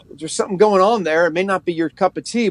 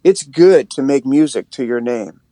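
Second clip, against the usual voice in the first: prayer; 3 semitones lower than usual. Shown as a demonstration. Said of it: "from reading the scripture to like".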